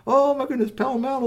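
high-pitched, startled outburst; excited exclamation. Acted. Storyteller on two figures running over the glacier, excited. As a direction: exclaim it high, in a rush of alarm.

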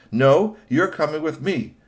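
slow, loud firm order; stern. A narrator's reading. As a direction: insist flatly. Uncle insists.

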